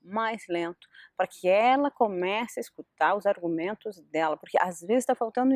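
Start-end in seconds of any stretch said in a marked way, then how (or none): 0.0-0.9 lower and slower. Shown as a demonstration. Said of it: "tom de voz mais baixo, mais lento".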